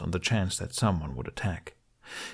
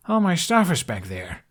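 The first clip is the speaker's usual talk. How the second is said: shouted protest; 8 semitones higher, 3 dB louder than usual. A narrator's reading. Hiccup shouting in flight.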